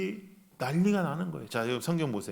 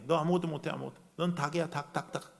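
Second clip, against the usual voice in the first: Satan's taunt; 4 dB quieter than usual. Retold or imitated. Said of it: "사탄도 똑같은 거예요".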